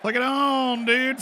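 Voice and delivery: high-pitched call of "Flick it on, dude"; high urging. Acted. Urging someone to switch on.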